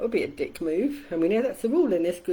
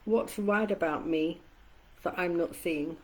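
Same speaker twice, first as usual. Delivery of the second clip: gentle question; 4 dB quieter than usual. Shown as a demonstration. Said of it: "Simply ask".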